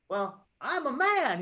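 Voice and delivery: high, loud, drawn-out exasperated confession; mad outburst. Retold or imitated. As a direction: act out a fed-up blurted admission. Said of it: "he's so mad".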